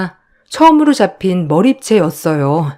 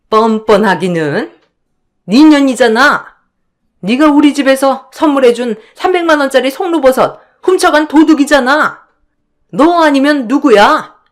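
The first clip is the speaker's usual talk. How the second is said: high, sharp accusing voice; sister-in-law shouting thief at her; angry accusation; 6 semitones higher than usual. Acted. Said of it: "너너거리면서 저에게 따지듯 몰아붙이니".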